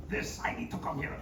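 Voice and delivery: mock whiny begging, hushed. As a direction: beg for the gig like a needy kid. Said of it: "that kind of whiny, begging voice".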